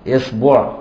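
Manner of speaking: إصبع said esbuʕ with i on the hamza and u on the b; vowel variants. Shown as a demonstration. Teacher to students, إصبع said esbuʕ. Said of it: "يعني بضم وفتح وكسر الهمزة".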